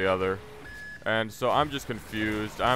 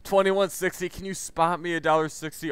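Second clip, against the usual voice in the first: much higher, incredulous squeak at the price; shocked disbelief; 7 semitones higher than usual. Retold or imitated. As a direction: jump up high in disbelief.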